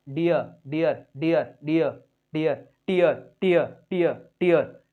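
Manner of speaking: "डियर" and "टियर" with ई gliding into अ; pronunciation drill. Shown as a demonstration. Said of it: "अ भी आएगा उच्चारण".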